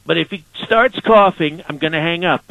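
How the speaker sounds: a light Donald Trump impression, boastful and casual. Impersonator answering the radio host as the president, lightly done Trump voice. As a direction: play the president brushing off a question. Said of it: "President Trump".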